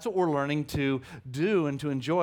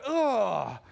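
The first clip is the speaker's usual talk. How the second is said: neighbour's disgusted ugh; 4 semitones higher, 3 dB louder than usual. Retold or imitated. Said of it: "the neighbor went".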